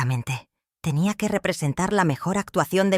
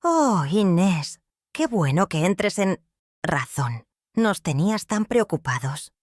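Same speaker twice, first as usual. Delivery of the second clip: slow, drawn-out sugary greeting; mock-sweet daughter-in-law; syrupy sweet; 3 semitones higher, slower than usual. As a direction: pour on the fake sweetness. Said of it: "Su voz era puro almíbar".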